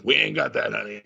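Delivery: put-on Boston accent. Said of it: "she's like".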